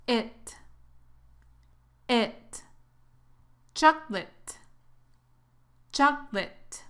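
"It" alone, then "Chocolate" in two syllables, CHOK-lit; careful model of "Chocolate", stressed first, ending like "It"; chocolate drill. Shown as a demonstration. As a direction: drop the middle o of "Chocolate". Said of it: "la O casi no se pronuncia".

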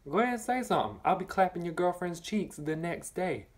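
high, teasing dare to the bullies; taunting dare. Retold or imitated. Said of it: "So I let 'em know".

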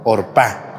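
"Orpa" stressed on the last syllable, or-PA; stress on the final A. Shown as a demonstration. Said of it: "con acento en la A".

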